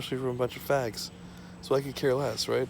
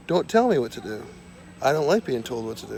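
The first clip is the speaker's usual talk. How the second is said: defiant shout; 5 dB louder than usual. Pretend. Reading his card, louder.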